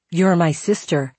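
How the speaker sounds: put-on Scottish accent. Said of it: "He had a thick Scottish accent".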